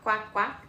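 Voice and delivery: lightly voiced quacks; mother showing her baby a duck sound. Shown as a demonstration. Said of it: "Does a duck say quack".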